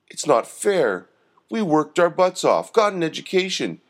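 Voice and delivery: lamenting. A narrator's reading. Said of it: "lamented Rembrandt".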